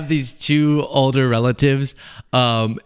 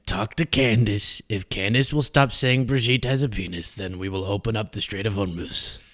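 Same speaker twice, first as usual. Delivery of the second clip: put-on Trump accent; 3 semitones lower, 5 dB quieter than usual. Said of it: "I've lost my Trump accent".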